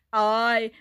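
slow, wobbly silly alien; wibbly alien voice. A narrator's reading. Dylan jiggles his lip to amuse classmates, wibbly alien voice. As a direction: wobble it out slowly like a daft alien. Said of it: "he wibbled".

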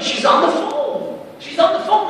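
high, loud excited yell, slowly drawn out; women yelling that she's on the phone, loud and thrilled; retold yelling. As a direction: shout the news across the cemetery. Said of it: "And everybody's yelling".

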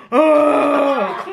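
mock ugh of disgust; hammed-up gagging ugh; imitating disgusted groan. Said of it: "freaking out".

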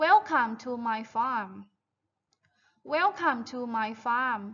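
slow, drawn-out teacher diction; model reading for repetition. Shown as a demonstration. Teacher has pupils repeat a greeting after her, slow model reading. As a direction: say each word slowly for pupils to copy. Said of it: "repeat after me".

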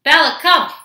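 loud, high, falling call; calling a dog. Real, not acted. Owner summons dog Bella into the room, calling out. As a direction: call the dog over sharply.

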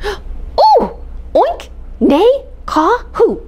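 high, eager repeating; Cat repeating the secret eagerly; excited repeat. Acted. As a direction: say it back with delight.

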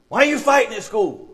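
high, emphatic parental demand; acted scolding question; retold indignant dad. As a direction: confront the kid in disbelief. Dad confronting son over fighting.

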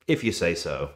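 dry, falling, grudging sarcasm; tired of arguing, a dry sarcastic brush-off; sarcastic insincere agreement. Retold or imitated. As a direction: concede "If you say so." with a falling eye-roll tone. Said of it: "sarcasm that's kind of been worked into an insincere agreement".

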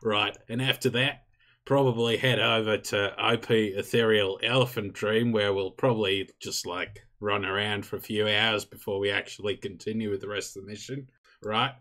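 Australian briefing. Acted. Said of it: "Why have you turned into Mick Dundee?".

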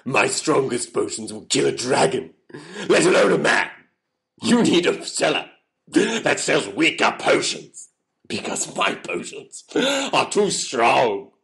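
emphatic, theatrical outbursts; dramatic warning. Acted. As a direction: proclaim it with hammy force. Seller warns knight off, dramatically.

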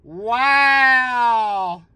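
very high, drawn-out whoops of real amazement; thrilled shouting. Real, not acted. Player finding the Jumbo symbol on his ticket, thrilled shouting. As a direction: holler it high and long, astonished. Hits the big symbol he wanted.

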